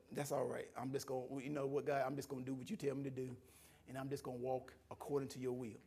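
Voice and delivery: low, soft acceptance; retold surrender. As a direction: yield quietly to God. Resigned prayer to God.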